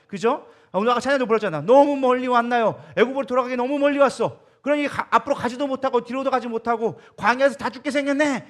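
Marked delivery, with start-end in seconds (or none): 1.6-8.4 raised, loud mock lament of the people; loud, higher-pitched acted grievance; resentful complaint. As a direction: imitate a crowd grumbling at God. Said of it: "뭐 이렇게 하면서 하나님 앞에 원망하니까".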